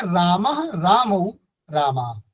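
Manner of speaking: slow, stretched-out recital of रामः रामौ रामा; students' rote reciting. Retold or imitated. Teacher shows how struggling children recite declensions, slow rote chant. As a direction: imitate pupils drawing out each declined form slowly. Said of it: "इस प्रकार से पढ़ते हैं".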